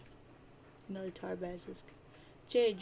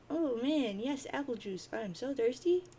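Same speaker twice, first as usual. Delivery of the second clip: mock eagerness; 5 semitones higher than usual. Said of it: "he'll make it and be like".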